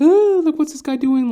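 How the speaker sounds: high, loud mock outrage; hammed-up shocked women in the parlor; disgusted women. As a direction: squeal it like a scandalised lady. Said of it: "they're like".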